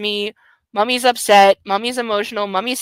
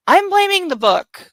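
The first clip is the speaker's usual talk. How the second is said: blaming the book; 8 semitones higher, 4 dB louder than usual. Real, not acted. Frustrated reader blaming the book.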